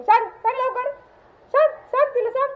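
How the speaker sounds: high-pitched quick prompting; excited urging. Pretend. Owner prompting the dog to tell her off, excited urging. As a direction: coax the dog insistently in a high voice.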